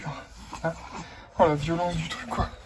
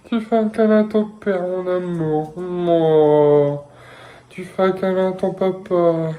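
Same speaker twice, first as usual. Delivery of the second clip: tender cooing; 3 semitones lower, slower than usual. Real, not acted. Parent cooing to baby for cuddle.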